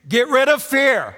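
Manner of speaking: failed attempt at a British accent; botched English accent; bad English accent. Shown as a demonstration. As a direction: try a posh English accent and miss. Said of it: "I tried, by the way, to do this in an, in a, uh, English accent".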